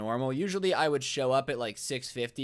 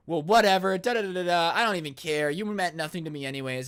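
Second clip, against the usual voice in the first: mock dismissive huff; 3 semitones higher, 4 dB louder than usual. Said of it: "she starts to get triggered".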